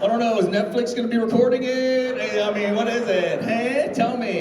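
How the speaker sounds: high, excited fan chatter; imitating excited fans; eager fans. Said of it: "everyone's coming up going".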